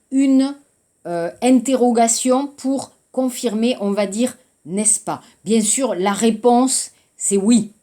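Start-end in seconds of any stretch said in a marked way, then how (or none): 4.7-5.2 n'est-ce pas said low and falling, pressing for a yes; insistent tag question. Shown as a demonstration. Teacher showing students an insistent n'est-ce pas. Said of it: "c'est pour insister".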